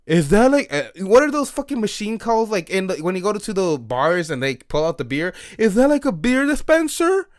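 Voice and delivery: acted-out excited asking; retold eager question. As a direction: imitate an over-eager friend asking, pitch climbing at the end. Retold friend's eager drunken question.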